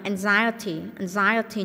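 "anxiety" stressed on the second syllable. Shown as a demonstration. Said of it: "nhân âm hai". (nhấn âm hai "anxiety")

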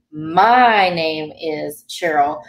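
"My" stressed, said slowly. Shown as a demonstration. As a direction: lean on "My" to show it's you. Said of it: "stressing on the "my," like, we get louder".

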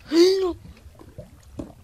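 loud, high sudden gasp; sharp gasp. Real, not acted. Player startled while mining in a cave, sharp gasp. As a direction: gasp in alarm.

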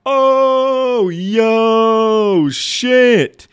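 put-on very high, loud boyish squeal; excited kid. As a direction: blurt it out like a shocked kid. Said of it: "And I was like".

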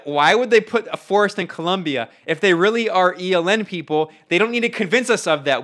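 laughing disbelief at a fake; incredulous. Real, not acted.

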